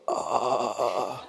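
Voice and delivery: a short stunned "uh" of shock; mild imitation of a shocked little gasp. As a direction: let the breath catch in a sudden gasp. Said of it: "I just heard the, her voice go".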